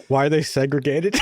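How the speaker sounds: reading the comment out through a laugh; half-shouted through laughter; laughing quote. Retold or imitated. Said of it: "the first comment was like".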